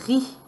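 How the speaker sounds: "ri" with a long rolled-out R; slowly sounded "ri"; sounding out. Shown as a demonstration. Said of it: "et lit".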